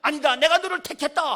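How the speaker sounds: loud, ringing declaration; voice of God. Acted. Preacher voices God declaring his choice, loud and ringing. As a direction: proclaim it with booming authority. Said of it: "하나님은 뭐라 그러시냐".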